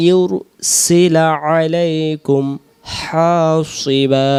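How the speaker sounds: ইউরসিলা with a clear yu, slow; clear yursila. Shown as a demonstration. Teacher models the correct ইউরসিলা for students, slow. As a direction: say ইউরসিলা, not উর, drawn out. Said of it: "তাহলে আমরা বলবো".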